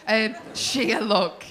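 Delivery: slow, drawn-out mock smoothness on "Um, sheer luck"; mock cheesy charm. Comic mocks the boyfriend's cheesy line, slow and smarmy. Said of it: "You fucking cheese ball".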